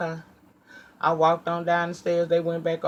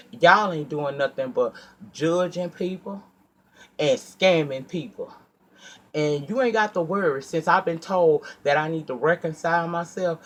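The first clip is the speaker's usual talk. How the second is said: raised, heated tirade at the congregation; retold church tirade. Woman confronting the church leaders, heated and scolding. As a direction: tell them off with rising heat.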